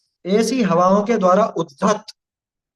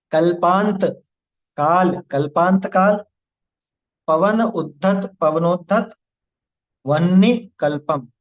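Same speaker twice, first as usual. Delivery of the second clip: word by word; slower than usual. Shown as a demonstration. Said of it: "एक एक line का एक एक पद".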